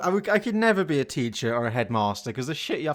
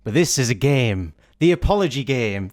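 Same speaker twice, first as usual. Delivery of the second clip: announcer voice; 4 semitones lower than usual. Acted. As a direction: introduce the segment like a solemn host. Hosts a game segment.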